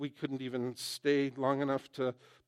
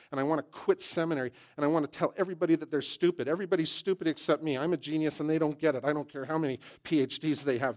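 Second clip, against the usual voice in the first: fast, louder, puffed-up grumbling; mock arrogant rant; 2 semitones higher, 4 dB louder, faster than usual. Preacher mocking his own frustration, fast hammed-up rant. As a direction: rattle off the self-important complaints. Acted self-pitying rant.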